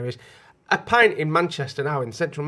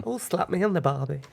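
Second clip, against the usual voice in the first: mock Aussie. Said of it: "slap it".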